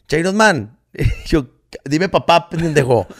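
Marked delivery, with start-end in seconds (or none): 0.1-0.8 hijo chiquillo. Retold or imitated. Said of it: "me dice". 1.8-3.1 regaño retozón. Retold or imitated. Papá responde molesto al hijo.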